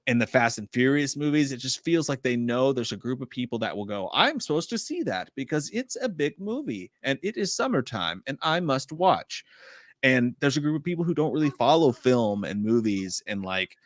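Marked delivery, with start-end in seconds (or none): 4.1-9.4 high, singsong mock moviegoer, slowing at the end; mock-dutiful singsong; mimicking obedient moviegoers. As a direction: parody a dutiful audience in swooping high pitch. Mimics unthinking blockbuster audience.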